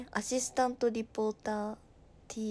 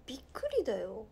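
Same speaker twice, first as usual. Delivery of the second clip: fast breathy whisper; faster than usual. Real, not acted. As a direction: whisper it quickly like a secret. Whispered aside on stream. (ささやき声で早口に)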